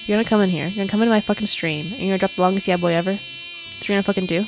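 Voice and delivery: very loud, incredulous scolding; loud indignant rant. Real, not acted. Streamer berating someone who dropped in and left, loud rant. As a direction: tear into someone at full volume.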